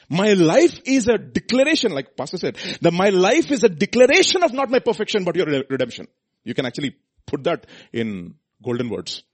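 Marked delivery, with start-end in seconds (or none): 0.1-1.9 high, loud preaching declaration; fervent proclamation. Acted. Preaching at full force. 2.8-6.1 high, loud preaching declaration; fervent proclamation. Acted. Preaching at full force.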